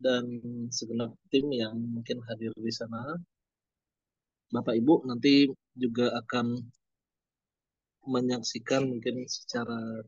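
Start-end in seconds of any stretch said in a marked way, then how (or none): 4.5-10.0 broken-up connection audio; choppy audio. Real, not acted. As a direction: voice cutting in and out. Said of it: "suaranya putus-putus".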